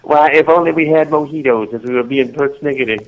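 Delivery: lightly put-on genteel Southern lady; Southern character voice. Guest riffing on persnickety for the host, mock Southern voice. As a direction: wish for it in playful Southern tones. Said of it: "that southern thing got to me so".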